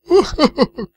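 high, loud mock sobs; hammed-up boo-hoo; mock sobbing. Cook breaking down over the governor, mock sobbing. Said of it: "Está llorando, pobre cocinero".

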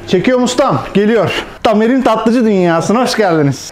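high bouncy presenter voice; cartoon character voice. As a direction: pitch it up like a cartoon host. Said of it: "Çizgi film karakteri gibisin".

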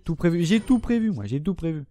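high, proud show-off sing-song; smug boast. Real, not acted. Gamer boasting to viewers, smug and high. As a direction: crow about having planned everything. Boasting about planning ammo.

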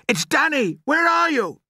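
very high, loud urgent shout. A narrator's reading. Boy answering a faint voice, shouting. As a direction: shout it across the wood. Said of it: "I shouted".

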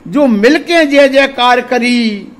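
slow, drawn-out verse recital; ringing, lilting poetry delivery; poem recitation. Acted. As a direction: declaim the refrain with long stretched words. Recites verse refrain before talking.

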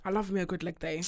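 hushed whisper. Real, not acted. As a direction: breathe it quietly. Whispered aside.

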